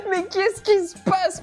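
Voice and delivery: surprised. Real, not acted. Reacting to a shocking dub.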